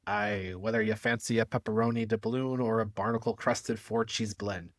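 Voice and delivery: lightly voiced pirate ad read; a hint of a hammy pirate pitchman. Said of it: "I hope you all enjoyed my pirate voice".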